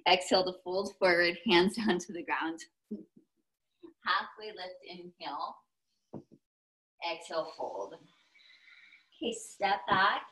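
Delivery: slipping back into a Texas accent; lightly Texan yoga cues. Shown as a demonstration. Teacher switching back to her accent for the fold, Texas accent. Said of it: "It's fun to go back and forth with my accent".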